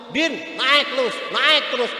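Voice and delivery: loud, sarcastic yell up the tree; angry reverse command. Retold or imitated. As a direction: shout the opposite in mock anger. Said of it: "nunjuk-nunjuk anaknya". (perintah terbalik dengan teriakan kesal)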